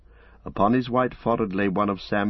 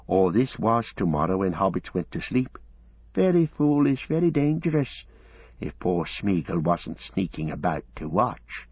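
hissy, reproachful creature scolding; scolding Gollum. Acted. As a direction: chide them as an aggrieved creature.

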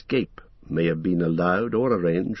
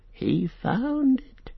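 boast; much slower than usual. A narrator's reading. Gollum boasting.

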